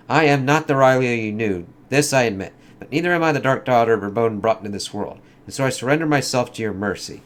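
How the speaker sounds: lightly acted comic dialogue, in character; comic characters voiced. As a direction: read it like a dramatic comic scene. Reads Rylia's surrender.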